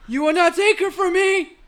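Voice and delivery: loud, high, slow furious vow; drawn-out, high-pitched defiant cry; acted Anakin defiance. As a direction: shout the film line with melodramatic rage. Acting Anakin in the scene.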